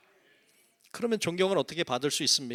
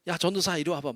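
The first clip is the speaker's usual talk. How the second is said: casual deacon; 4 semitones higher, 3 dB louder than usual. Retold or imitated. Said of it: "막 이렇게 하는데".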